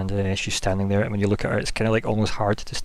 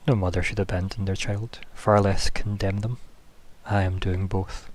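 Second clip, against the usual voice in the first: sorrowful confession; 5 dB quieter than usual. Acted. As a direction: let the shame weigh on each word. Goddess confesses her shame.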